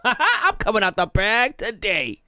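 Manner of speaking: laughing, slow. Real, not acted. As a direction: laugh as you say it. Laughing at herself.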